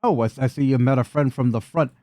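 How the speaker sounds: high, taunting goblin voice; swooping high brute voice. Acted. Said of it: "So Goblino brute number three".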